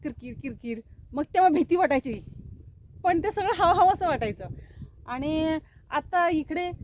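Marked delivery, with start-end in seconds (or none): 0.0-0.8 quiet imitation of crickets, "किरकिर, किरकिर"; cricket chirp imitation. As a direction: softly mimic crickets at night. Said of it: "ते रातकिड्यांचा आवाज". (रातकिड्यांचा हलका आवाज)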